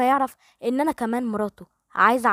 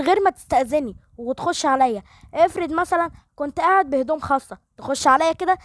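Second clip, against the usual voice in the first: angry outburst; 3 semitones higher than usual. Acted. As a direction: lash out at her for barging in. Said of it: "آسر يقوم بغضب".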